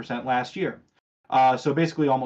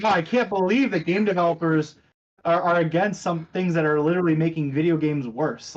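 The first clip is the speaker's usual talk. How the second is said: sarcastic; 4 semitones higher, 3 dB louder than usual. Retold or imitated. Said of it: "that was absolutely sarcastic".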